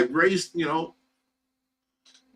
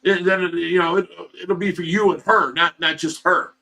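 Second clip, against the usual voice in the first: a mildly raised voice, quoting angry parents; half-hearted mock yell, louder than usual; retold yelling; 2 semitones higher, 4 dB louder than usual. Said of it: "they yelled at me".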